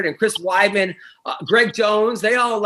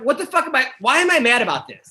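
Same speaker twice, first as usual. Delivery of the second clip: mild mock outburst; 6 semitones higher than usual. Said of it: "and I'm, like, mad".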